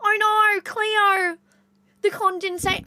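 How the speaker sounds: can't shake the broad Australian accent; stuck in the Australian accent, quoting the H2O show. Shown as a demonstration. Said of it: "it just ends up being like".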